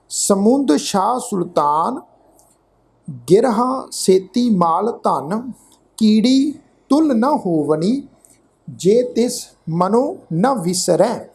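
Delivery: measured, drawn-out verse reading; slow gurbani recitation. Shown as a demonstration. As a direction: recite the pauri slowly, word by word. (ਹੌਲੀ ਹੌਲੀ ਪਾਠ ਉਚਾਰਨ)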